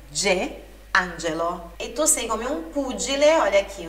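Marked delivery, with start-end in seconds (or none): 0.1-1.7 "angelo" com o G de djê, bem devagar; G explosivo. Shown as a demonstration. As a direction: estoure o G de "angelo". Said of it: "som do G E é sempre explosivo". (G de "angelo" como djê, devagar)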